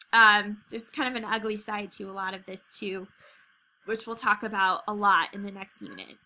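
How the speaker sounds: talking through hiccups. Real, not acted. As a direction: speak between hiccups. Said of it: "Sorry, I have the hiccups".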